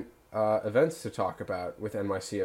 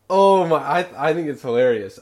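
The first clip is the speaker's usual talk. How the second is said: mock offended; 6 semitones higher, 9 dB louder than usual. Real, not acted. Defending his bad joke.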